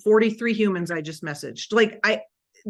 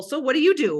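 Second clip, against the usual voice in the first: upbeat question; 4 semitones higher, 5 dB louder than usual. Shown as a demonstration. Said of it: "super secret for that is asking people".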